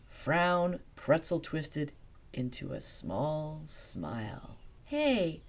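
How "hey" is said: high, bright proclamation; proclaiming. Acted. Velma proclaiming her idea to everyone. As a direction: announce your idea with glee. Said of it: "she proclaimed".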